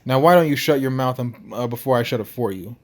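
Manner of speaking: put-on massive man with a Russian accent. Huge Russian telling Tony to shut up, Russian accent. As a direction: threaten in an amateur Russian accent. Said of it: "his Russian accent thick enough to slice lumber".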